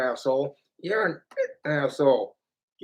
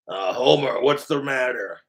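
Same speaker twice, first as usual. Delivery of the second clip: Moe; 6 semitones lower than usual. Acted. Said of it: "My Simpsons voices".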